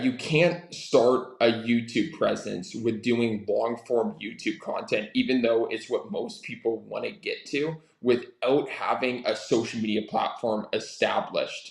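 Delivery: deliberately slowed, spaced-out phrasing; slow repeat. Shown as a demonstration. Repeating key advice for people in the back, slowly. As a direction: say it slowly so everyone catches it. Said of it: "Say that again real slow for the people in the back of the room".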